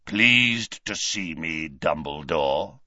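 slow, rasping taunt. A narrator's reading. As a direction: drawl the taunt in a rough rasp. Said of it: "a rasping bark of a voice".

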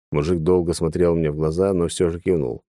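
ordinary delivery

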